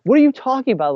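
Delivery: high-pitched imitation of baffled bosses; retold disbelief, jumping up high; mock incredulous. Bosses question the employee who just quit, incredulous.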